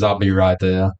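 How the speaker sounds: low, heavy promise; a hint of a grim son answering; lightly voiced grave reply, low. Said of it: "Dan Aykroyd says".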